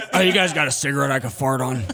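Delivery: low voice breaking into laughter; laughing Tina voice. Retold or imitated. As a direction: laugh through the character line. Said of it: "my Tina character".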